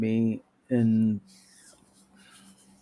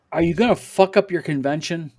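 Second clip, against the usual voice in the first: louder, a mock gruff growl; gruff, laughing through it; mock gruff Tim; 3 semitones higher, 7 dB louder than usual. Telling fans how Tim answered him, mock gruff. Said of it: "real gruffly".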